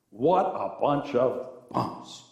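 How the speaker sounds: mock-judgmental, tongue in cheek; sarcastic. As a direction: say it sarcastically, drawing out the insult. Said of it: "you know I'm being sarcastic".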